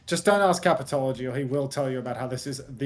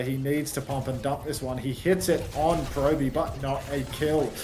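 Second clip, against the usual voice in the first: play-by-play; 2 semitones higher than usual. Acted. Casts the live match action.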